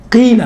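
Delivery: "قیل" with a thin, unrounded Q before long i. Shown as a demonstration. Teacher showing students Q with kasra, said thin. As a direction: keep "قیل" light, a clean qee-la. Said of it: "بالکل باریک تلفظ ہوتا ہے".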